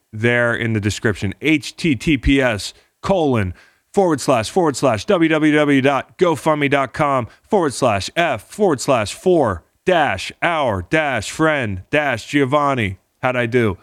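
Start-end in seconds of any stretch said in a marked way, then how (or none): 1.4-13.0 higher-pitched, rattled-off web address; rapid-fire reading. Real, not acted. Host racing through the fundraiser URL for listeners, rapid-fire. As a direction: race through it item by item. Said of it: "I'm gonna try to say it as fast as I can".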